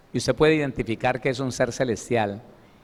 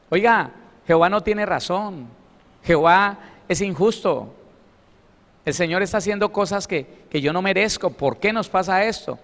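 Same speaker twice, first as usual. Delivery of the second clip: indignant complaint; 3 semitones higher than usual. Acted. Paraphrasing Gedeon's reproach.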